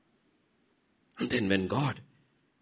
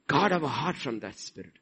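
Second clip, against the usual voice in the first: softer repeat, drawn back; soft echo; 6 dB quieter than usual. Real, not acted. Preacher echoing his warning, softer. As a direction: let it drop to a hush. Quiet repeat after loud line.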